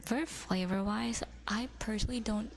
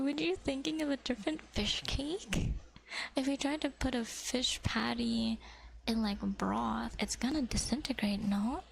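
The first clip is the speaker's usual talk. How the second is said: ASMR whisper. Acted. Whispering to viewers about fish cake. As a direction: whisper it close to the mic.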